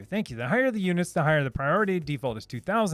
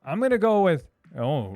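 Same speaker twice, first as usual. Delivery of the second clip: usual speaking voice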